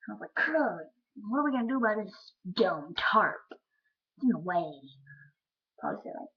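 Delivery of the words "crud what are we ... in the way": lightly voiced kid complaint, loud; a hint of little-kid voice; five-year-old self. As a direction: grumble like a dismayed kindergartner. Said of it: "Five-year-old. I think I went".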